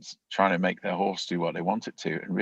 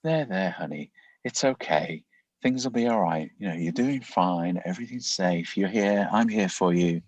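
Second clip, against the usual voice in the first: soothing parent voice. Shown as a demonstration. Parent calming a scared baby child, lightly lyrical and soothing. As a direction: lull a baby with a mild sing-song calm. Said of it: "quite a lyrical, um, low, lower frequency voice".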